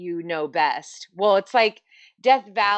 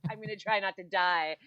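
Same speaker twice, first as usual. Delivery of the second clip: hushed, much softer self-quote of dread; mock dread; 8 dB quieter than usual. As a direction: say it under your breath, half-joking about surviving. Voicing dread in extreme heat.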